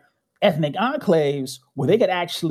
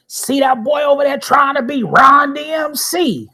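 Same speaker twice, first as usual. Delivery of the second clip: mock coach shout, higher and louder; coach yelling; 9 semitones higher, 4 dB louder than usual. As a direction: call across the court like a coach. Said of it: "he was like".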